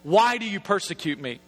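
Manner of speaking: low, drawn-out booming call from heaven; booming heavenly voice. Acted. Voice from heaven calling Saul on the road, booming. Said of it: "this booming voice coming from heaven".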